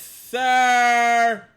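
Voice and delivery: loud barked yes sir; shouted. Pretend. Mock military reply, shouted.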